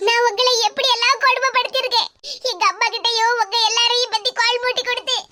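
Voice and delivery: halting, sobbing confession; weepy remorse; tearful. Acted. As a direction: confess guilt through tears, catching breath between phrases. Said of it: "இப்ப கண்ணீரை தொடச்சுக்கிட்டு".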